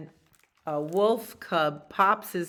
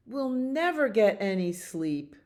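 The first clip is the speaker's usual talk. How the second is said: complaining beaver; 4 semitones higher than usual. Acted. Beaver kept awake all day, higher mild wail. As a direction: moan it, sliding down at the end. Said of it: "says Beaver".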